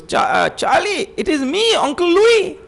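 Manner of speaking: high, bright uncle's voice; cheerful uncle. Retold or imitated. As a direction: call out warmly to the boy. Officer reveals himself.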